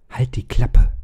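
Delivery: sharp hissed whisper. A narrator's reading. Jennifer hisses at the boy to shut up. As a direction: hiss it through your teeth. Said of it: "zischte Jennifer ihm zu".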